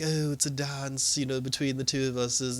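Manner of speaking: lightly imitated sly villain; Joker. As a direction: stretch it out tauntingly. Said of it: "he was just like".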